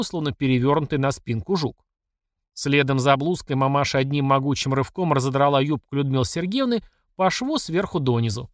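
plain reading voice

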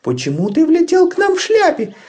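high peeping chick voice; peeping baby chick. Acted. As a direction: chirp like a tiny chick. Chick Tutta Karlsson speaks. (писклявый голосок цыплёнка)

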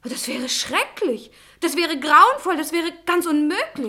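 from slow and hushed to loud and high; rising alarm. Acted. Young lady dreads what the article claims about Alexander, building from slow to loud. Visitor escalates her horror.

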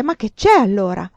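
loud, worried question; anxious. A narrator's reading. The mother asking what is wrong, anxious. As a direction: ask urgently, with anxiety. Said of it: "chiese con ansia".

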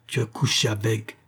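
strained cry at contained volume; vociferated accusation. A narrator's reading. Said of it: "vociféra encore une fois". (cri vociféré, étranglé)

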